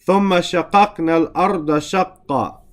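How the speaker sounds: quick recited verse in Arabic; Quran recitation. Shown as a demonstration. Teacher reciting the verse to his class, brisk and chanted.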